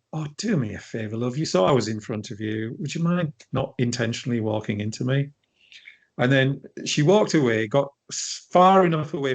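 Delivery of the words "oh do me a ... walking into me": calm. Retold or imitated. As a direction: keep it cool and polite with an edge. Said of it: "I just very calmly went".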